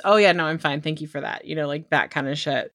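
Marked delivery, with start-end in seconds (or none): 0.0-1.5 abrupt recovery. Retold or imitated. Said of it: "a dramatization of fake crying".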